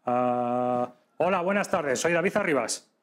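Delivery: voice after emptying lungs. Shown as a demonstration. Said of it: "cuando ya me he quedado sin aire, esa es mi voz".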